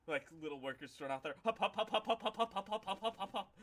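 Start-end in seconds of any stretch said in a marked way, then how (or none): 1.4-3.5 high, clipped hopping chant; tiny gnome hops. Acted. Little workers hopping to drag bodies away, squeaky chant.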